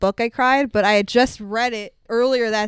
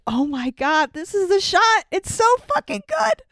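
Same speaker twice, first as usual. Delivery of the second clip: rising high and gushing with delight; breathless fangirl gush; gushing excitement; 8 semitones higher than usual. Retold or imitated. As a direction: squeal it like a fan seeing the shot. Reliving excitement at the shot.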